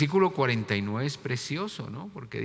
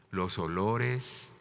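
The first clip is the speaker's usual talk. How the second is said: ordinary talk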